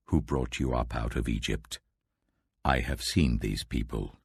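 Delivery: low, grave voice of God; voice of the Lord. Acted. The Lord warning Moses about his people, low and grave. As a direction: speak as an angry God, low and heavy.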